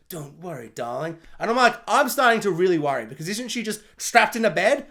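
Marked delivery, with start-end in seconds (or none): 0.1-1.2 movie's closing line. Retold or imitated. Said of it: "it ends and then it goes".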